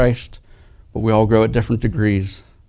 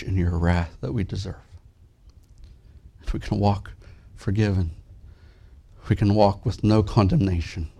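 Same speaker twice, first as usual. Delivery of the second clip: prayer. Real, not acted. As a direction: pray gently over the congregation. Pastor's opening prayer.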